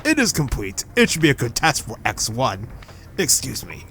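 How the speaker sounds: lightly voiced generic old man; a hint of an old man, low and measured. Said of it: "I'm just giving my generic old man voice".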